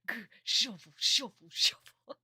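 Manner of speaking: silly put-on voice, loud on the shuffles; mock Jonochi. Mimicking Jonochi shuffling his deck, silly and loud. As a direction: ham up a goofy mumble, then belt the shuffles. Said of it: "Jonochi going like".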